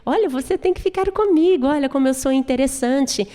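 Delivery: high, coaxing flirt voice; playful high-voiced seduction; Serpina voice. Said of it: "tá falando pra ele".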